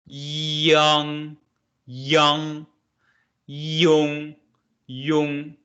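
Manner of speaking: "yang, yang, yong" said slowly and clearly as Mandarin syllables; Mandarin syllable demo. Shown as a demonstration. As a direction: model each syllable carefully for students. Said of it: "think it as this sound in your English".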